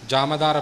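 ਜਮ ਦਰ spoken as "jama dar"; careful pronunciation. Shown as a demonstration. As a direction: keep ਜਮ and ਦਰ as two distinct words. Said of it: "ਇਹ ਵੀ ਉਚਾਰਨ ਦਾ ਖਿਆਲ ਰੱਖਣਾ". (ਜਮ ਦਰ ਵੱਖ-ਵੱਖ ਕਰਕੇ ਉਚਾਰੋ)

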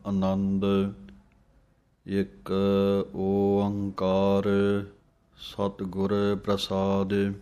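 slow, measured scripture recitation; gurbani recitation. Acted. Teacher reciting scripture slowly to students. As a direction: recite each word with reverent pauses. Opening recitation of Anand Sahib.

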